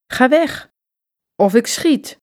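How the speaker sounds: hoog, dreigend geroepen; roept dreigend. A narrator's reading. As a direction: roep het dreigend naar buiten. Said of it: "roept hij weer". (dreigend roepen naar de dief)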